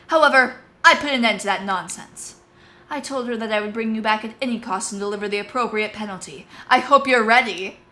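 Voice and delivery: lightly voiced stern boss; menacing commander. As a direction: promise the punishment. Tanith threatens.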